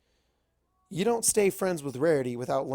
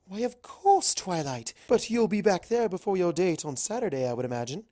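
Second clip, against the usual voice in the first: higher, teasing refined lady; Rarity's voice; 4 semitones higher than usual. Acted. Rarity teasing Twilight about her date, higher. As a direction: tease her friend with a knowing lilt.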